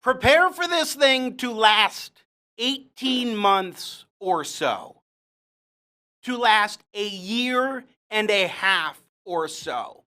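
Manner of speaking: slow, pointed disbelief; drawn-out, emphatic echo of someone else's claim; incredulous requote. Retold or imitated. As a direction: repeat it slowly, stressing the length of time. Incredulously repeats the clip's claim.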